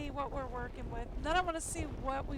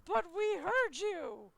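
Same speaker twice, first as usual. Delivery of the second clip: mock indignant disbelief; 5 semitones higher, 4 dB louder, slower than usual. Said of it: "then they go".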